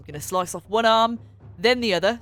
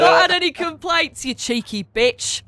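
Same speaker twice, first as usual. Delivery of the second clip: high, loud cheeky comeback; playful high-pitched scolding; mock-outraged retort; 9 semitones higher, 6 dB louder than usual. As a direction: throw it back in mock outrage. Player acts out her character's retort.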